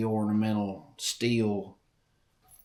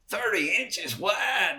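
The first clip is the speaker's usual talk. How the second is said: "Thirty inches wide?" shouted high and slow; incredulous shout; 9 semitones higher, slower than usual. Retold or imitated. Boy to the old hunter, shouting "Thirty inches wide?" in disbelief.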